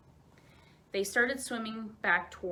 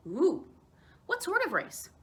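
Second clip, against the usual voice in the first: excited ooh; 8 semitones higher, 4 dB louder than usual. Acted. Excited child moose.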